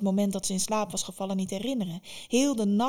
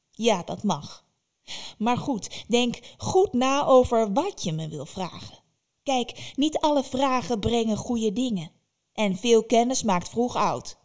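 slow, louder ominous witch; stern witch warning; 3 semitones higher, 5 dB louder than usual. Acted. Baba Yaga warns Vasilisa about questions, slow and ominous. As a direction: warn her like an old witch with secrets.

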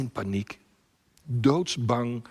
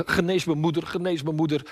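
mildly urgent repeated plea, slightly raised; imitated begging; 4 semitones higher than usual. Small boy begging the lion, imitated pleading. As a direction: press the request, lightly pleading. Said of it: "dan smeekt hij".

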